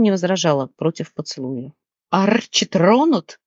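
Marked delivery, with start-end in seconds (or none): 2.1-3.4 parrot cry. Acted. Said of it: "выкрикнул попугай".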